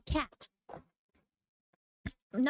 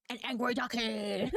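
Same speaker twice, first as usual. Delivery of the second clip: laughing reveal. Real, not acted.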